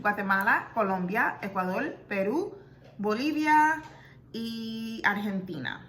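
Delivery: Latin place names in her parents' Spanish accent. Shown as a demonstration. Reading out her DNA results in a Spanish accent. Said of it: "let's say it with my Spanish accent".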